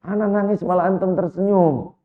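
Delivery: retold taken-aback complaint; startled protest. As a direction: cry out in mock astonishment. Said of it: "Maka wanita ini kaget".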